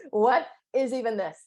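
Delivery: half-laughing, half-crying disbelief. Retold or imitated. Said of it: "I'm like".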